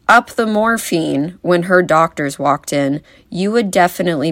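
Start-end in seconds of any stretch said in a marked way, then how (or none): 0.1-1.4 mock yell, drawn out and higher; imitated yell. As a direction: imitate grandma calling out her demand, slowly. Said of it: "if you guys saw Grandma yelling".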